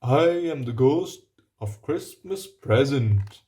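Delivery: a giant ghost's loud, grand introduction; booming giant. Acted. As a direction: announce yourself like a jolly giant. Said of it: "boomed the giant".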